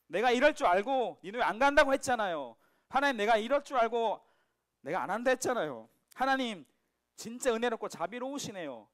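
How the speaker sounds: a prophet mocking the God he is angry with; sarcastic protest. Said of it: "이 비아냥대는 말이거든요". (빈정대며 대드는 말투)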